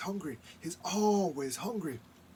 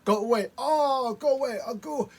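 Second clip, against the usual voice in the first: spirits shooing Raven; 8 semitones higher, 7 dB louder than usual. Acted. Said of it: "those people said".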